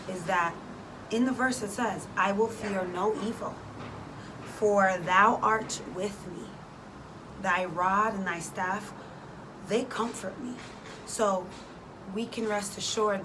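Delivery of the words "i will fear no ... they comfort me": scripture reading. Acted. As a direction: read the verse with weight. Quoting the psalm slowly.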